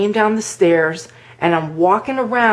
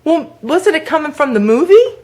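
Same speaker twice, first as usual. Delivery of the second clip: high, mock-innocent question; feigned puzzlement, pitched up; playing dumb; 9 semitones higher than usual. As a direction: act as if you have no idea. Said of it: "I played really stupid".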